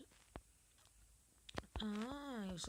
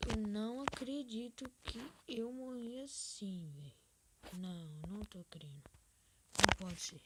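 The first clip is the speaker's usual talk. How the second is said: loud disbelieving rage at dying; can't believe he lost, fuming; raging gamer; 5 dB louder than usual. Real, not acted. Just died in the game.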